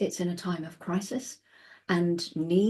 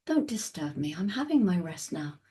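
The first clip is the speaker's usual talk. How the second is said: calm reply; 3 dB quieter than usual. Retold or imitated. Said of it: "you look at them really calmly and you say".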